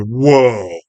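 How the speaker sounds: drawn-out mock whoa of amazement; Spike. Spike in the background, imitated awed exclamation. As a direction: stretch the whoa out, swelling then falling. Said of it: "Spike in the background going".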